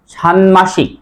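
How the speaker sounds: ষান্মাসিক with a clear m; correct pronunciation. Shown as a demonstration. Teacher repeats for students, sounding the m in ষান্মাসিক. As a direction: say "shanmashik" for ষান্মাসিক. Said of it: "আবার বলি, উচ্চারণ কি হবে?".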